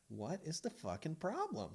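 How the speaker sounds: high-pitched indignant protest; exasperated husband. Retold or imitated. Husband asking wife what the problem is, exasperated.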